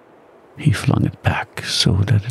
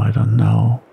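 lower, ominous repeat; ominous mutter; 9 semitones lower than usual. A narrator's reading. Bill repeating his doubt to Henry, muttered low. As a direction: mutter it again, low and uneasy. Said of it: "Bill muttered ominously".

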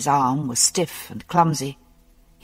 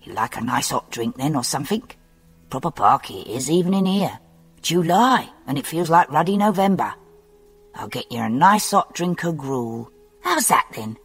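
kindly Cockney orderly. Acted. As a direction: fuss over the patient good-naturedly.

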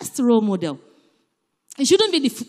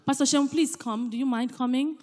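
soft, gentle request; polite request; 4 dB quieter than usual. Shown as a demonstration. Gently asking the pastor to come forward. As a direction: ask the pastor kindly to come up. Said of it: "Am I being polite?".

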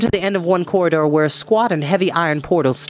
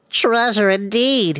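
high, slow greedy excitement; breathless at the gems; choking excitement; 6 semitones higher, slower than usual. Acted. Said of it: "choking in his excitement".

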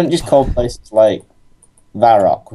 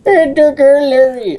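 mock dramatic outrage; 5 dB louder than usual. Player wailing melodramatically that Larry was taken. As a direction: wail it like a stage tragedy.

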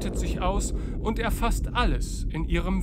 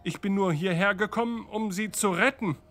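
desperate; 3 semitones higher, 3 dB louder than usual. Acted. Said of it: "Picard verzweifelt".

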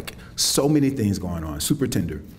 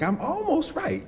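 mock hedging; slower than usual. Mock sonnet voice, high pitch.

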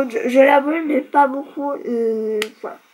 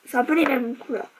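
whisper; 4 dB quieter than usual. Real, not acted. Softly comparing lipstick shades on camera.

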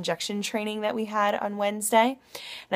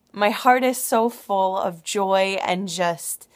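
overwhelmed whisper; slower than usual. Real, not acted. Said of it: "I'm just overwhelmed right now".

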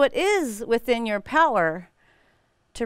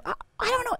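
husband's flustered reply; 13 semitones higher, 6 dB quieter, much faster than usual. Retold or imitated. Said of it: "and Brad goes".

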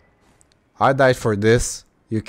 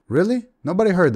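incredulous; 9 semitones higher, 3 dB louder, faster than usual. Real, not acted. Gamer incredulous at enemies.

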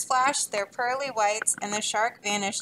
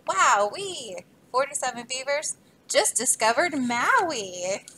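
excited holler, raised; 3 semitones higher, 4 dB louder than usual. Acted. Beavers spot Maui and holler with joy. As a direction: shout for joy at land. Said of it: "made them holler".

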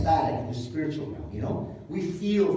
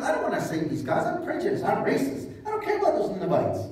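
mock Jonah confession; 5 semitones higher, 3 dB louder than usual. Jonah voiced as openly prejudiced.

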